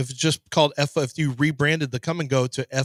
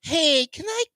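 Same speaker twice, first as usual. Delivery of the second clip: art lover voice; 10 semitones higher than usual. Retold or imitated. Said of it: "and he goes".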